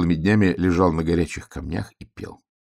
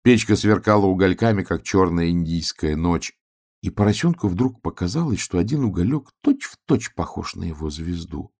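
ordinary delivery

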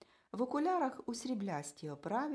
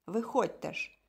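louder, curt command; barked order; 5 dB louder than usual. A narrator's reading. Man in glasses ordering clients out, loud bark. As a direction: order them out sharply. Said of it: "гримнув".

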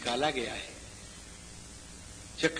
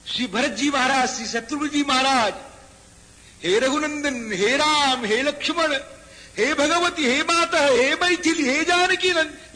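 higher, louder call of divine names; impassioned calling; 8 semitones higher, 6 dB louder than usual. Acted. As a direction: cry out to Ram and Sita in grief. Brothers calling names, preached. (ऊँचे स्वर में विलाप भरी पुकार)

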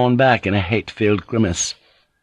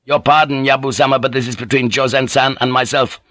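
higher, unyielding character voice; insulted young lord Naga; 4 semitones higher than usual. Acted. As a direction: hold firm over an insult.

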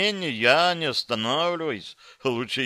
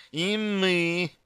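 higher eager exclamation in another voice; exclaiming; 7 semitones higher than usual. A narrator's reading. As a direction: blurt it out eagerly. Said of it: "воскликнули Садара с Дайрин".

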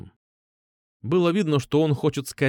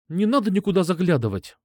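irritated; 6 semitones higher than usual. A narrator's reading. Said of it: "раздражённо бросила она".

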